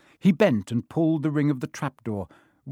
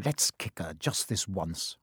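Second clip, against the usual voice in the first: soft, slow, low conspiratorial murmur; whispered; 5 semitones lower, 6 dB quieter than usual. A narrator's reading. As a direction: hush it into his ear, slowly. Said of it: "Ron whispered in Harry's ear".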